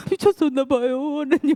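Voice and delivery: rueful laugh at yourself; half-laughing confession to God. Real, not acted. Laughing at own past folly.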